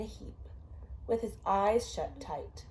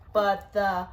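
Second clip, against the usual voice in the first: slow drawn-out refrain; much slower than usual. A narrator's reading. Parent reading a bedtime book to a child, slow drawn-out refrain. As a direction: bring it down slow and heavy like a sleeping bear.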